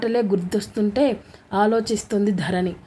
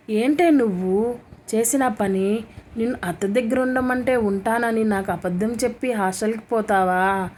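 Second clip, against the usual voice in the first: mild scolding. Acted. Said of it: "గయ్యమని లేచింది రేవతి".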